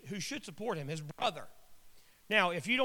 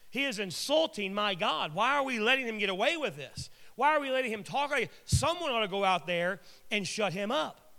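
mildly hammed-up righteous outrage; indignant; 3 semitones higher than usual. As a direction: demand answers like an offended believer. Acting out David's outrage at Goliath.

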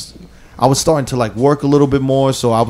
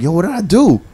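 higher-pitched, puzzled protest; confused; 5 semitones higher than usual. Retold or imitated. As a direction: act out mild, innocent confusion. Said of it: "And I was, like, confused".

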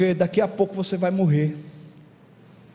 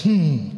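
silent wife's grunt; 3 semitones lower than usual. Acted. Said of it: "fica calada olhando pra você e faz".

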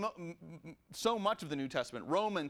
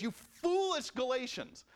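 mock exasperation; 6 semitones higher, slower than usual. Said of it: "at one point he just says".

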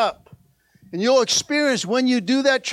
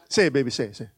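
laughing tease; 9 semitones lower, 5 dB quieter, much faster than usual. Retold or imitated.

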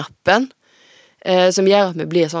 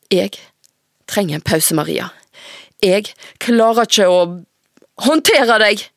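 trembling threat; 3 semitones higher than usual. Acted. Mother at her limit with her daughter, trembling held-in anger. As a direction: fight not to scream. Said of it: "men med en truende dirring".

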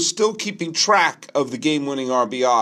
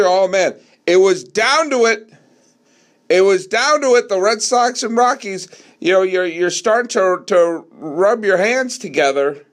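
like a fan on the edge of his seat; excited fan; 4 semitones higher than usual. Pretend. Imagined fan feeling the tension.

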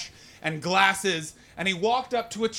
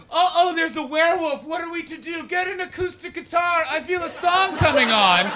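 high-pitched hammed-up fretting; put-on high voice, mocking; mock dainty vampire; 11 semitones higher, 6 dB louder than usual. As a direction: mimic a wet, silly teen-film vampire. Mocking Twilight vampire characters.

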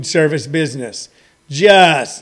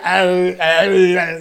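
put-on drunken groan; much slower than usual. Comedian imitating someone drunk on Russian vodka, drunken groan. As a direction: groan wordlessly as if too drunk to walk. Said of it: "Russian vodka made me where I couldn't walk".

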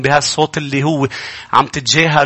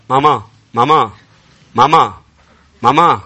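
put-on whining child; 2 semitones lower than usual. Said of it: "مثل الأولاد الصغار".

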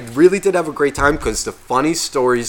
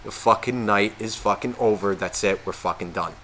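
resigned; 5 semitones lower, 8 dB quieter than usual. Retold or imitated. Resigned to night being over.

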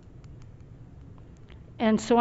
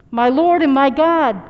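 loud, slightly raised cry of awe; 3 semitones higher, 7 dB louder than usual. A narrator's reading. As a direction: read it as Thomas's fervent exclamation. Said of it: "cried Thomas".

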